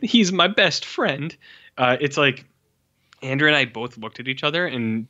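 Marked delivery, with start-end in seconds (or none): 0.0-1.4 put-on 1 old Italian man. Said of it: "Martini's like".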